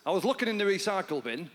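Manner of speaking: chirpy upbeat dad on the phone; bright cheerful good-news call; optimistic lilt. Retold or imitated. Dad phones son with great news, light optimistic lilt. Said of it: "remarkably optimistic lilt in his voice".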